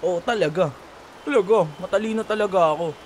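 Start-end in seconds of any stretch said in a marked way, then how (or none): 0.1-0.7 laughing yes. Acted. Laughing agreement.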